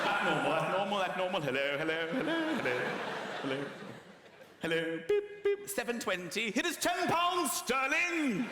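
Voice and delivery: loud, slowed hammed-up till beeps and cashier; mock checkout cashier. Cashier scanning Scottish money, loud hammed-up till beeps. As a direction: play the till like a machine.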